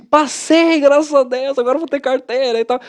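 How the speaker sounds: high, celebratory outburst; acted elation. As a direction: crow about passing in a high voice. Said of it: "Eu tava feliz".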